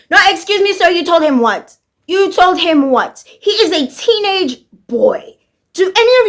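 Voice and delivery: mock scandalized, as if cross-examining Butcher; outraged disbelief. Ranting at Butcher's line, outraged incredulity.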